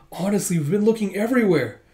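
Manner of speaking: high-pitched fussy reproach; exasperated scolding. Acted. Exasperated attendants find their lady.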